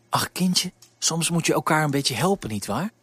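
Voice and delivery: knowing, sympathetic remark; a hint of a kind baker's wife.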